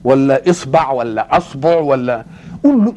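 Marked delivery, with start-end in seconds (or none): 0.5-0.9 "إصبع" with i then a, isbaʕ; pronunciation variant. Shown as a demonstration. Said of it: "هنقولها". 1.4-1.8 "أصبع" opened with a, asbuʕ; pronunciation variant. Shown as a demonstration. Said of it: "هنقولها".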